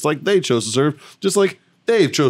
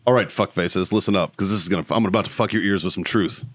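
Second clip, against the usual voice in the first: rant opener; 4 semitones lower than usual. Real, not acted. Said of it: "the speaker's rant".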